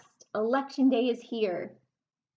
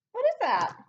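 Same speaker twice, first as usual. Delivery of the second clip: mock surprise; 12 semitones higher, 5 dB louder than usual. Surprised reveal for kids.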